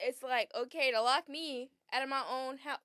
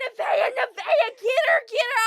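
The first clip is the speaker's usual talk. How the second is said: friend egging on; 10 semitones higher, 11 dB louder than usual. Retold or imitated. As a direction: egg her on like a hyped friend. Friend urging her on.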